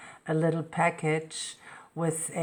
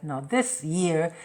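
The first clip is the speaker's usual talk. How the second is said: annoyed; 5 dB louder than usual. Retold or imitated. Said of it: "I was very annoyed".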